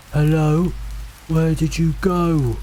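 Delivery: high, drawn-out searching call. A narrator's reading. Mimic voice following fleeing hikers, searching call. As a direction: call after someone who has vanished.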